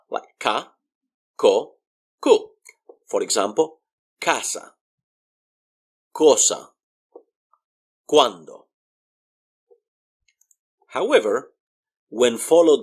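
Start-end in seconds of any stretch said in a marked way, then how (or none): 0.4-2.5 ka, ko, ku with pure Spanish vowels; "kah, koh, koo" for ka, ko, ku; hard C sound. Shown as a demonstration. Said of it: "it sounds like K". 4.2-8.7 casa, cosa, cuando starting on a k; "KAH-sa, KOH-sa, KWAN-do" for casa, cosa, cuando; hard C as K. Shown as a demonstration. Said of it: "it sounds like K".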